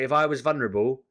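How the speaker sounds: loud, building angry rant; ranting at her. Retold or imitated. Ranting at the debt caller about vulnerable people, loud. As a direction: hammer each if at her. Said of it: "And I went ballistic".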